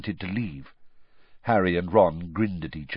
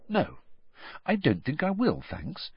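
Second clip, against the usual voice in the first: firm refusal; 6 semitones higher, 5 dB quieter than usual. A narrator's reading. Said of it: "a little more firmly".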